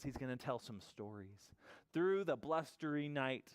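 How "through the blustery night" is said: measured read-aloud, slowing to the end; story narration. A narrator's reading. Storyteller closing on wakeful bear, slowing narration. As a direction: wind the tale down gently.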